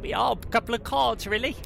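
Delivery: pixie. Acted. Gnome cousin jokes.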